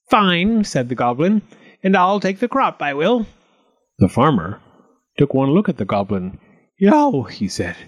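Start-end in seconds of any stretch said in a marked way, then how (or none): 0.1-0.6 goblin voice. A narrator's reading. Goblin appears. 1.8-3.3 goblin voice. A narrator's reading. Goblin speaks. 6.8-7.2 high startled cry; startled yelp. A narrator's reading. Farmer startled by goblin.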